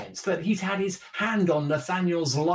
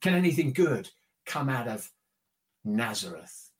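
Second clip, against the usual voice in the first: scoffing laugh into a lightly dismissive question; a touch of sceptical disdain, dropping low on the last word; mildly cynical; 5 semitones lower than usual. Acted. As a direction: voice a mild sceptic's doubt. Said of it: "Pretty cynical, huh?".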